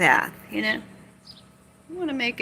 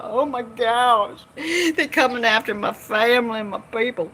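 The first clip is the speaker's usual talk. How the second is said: mock alarm; 4 semitones higher than usual. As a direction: mimic someone in a hammed-up panic. Mimicking alarmed people.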